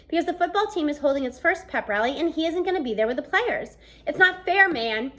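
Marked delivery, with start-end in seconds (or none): 4.1-5.1 loud angry roar at the unfairness; injured player roaring that it's not fair. Acted. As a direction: roar it, fed up and indignant. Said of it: "he roars".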